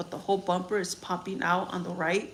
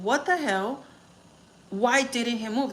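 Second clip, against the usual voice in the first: shocked, higher and louder; retold shock; 4 semitones higher, 4 dB louder, slower than usual. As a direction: relive the moment of disbelief. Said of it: "I literally said".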